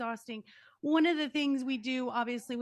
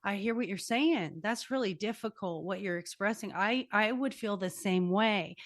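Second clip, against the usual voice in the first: empathetic, understanding. Shown as a demonstration. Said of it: "You have to say".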